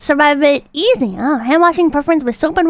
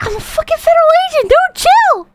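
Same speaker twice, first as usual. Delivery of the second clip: higher, fast exasperated protest; imitating the agent; 10 semitones higher than usual. Quick, pitched-up mock indignation. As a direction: streamer plays the agent telling the cop to chill, a mock high protest. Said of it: "The guy's like".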